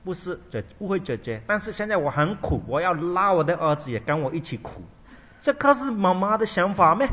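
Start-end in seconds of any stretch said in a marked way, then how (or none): 1.5-4.8 mother's loud complaint. Retold or imitated.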